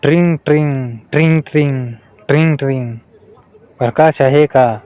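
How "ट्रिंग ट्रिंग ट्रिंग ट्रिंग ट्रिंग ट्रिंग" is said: spoken ring-ring, each pair falling; lightly voiced telephone bell; phone ring imitation. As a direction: mimic a ringing telephone in pairs. Mimics a ringing phone.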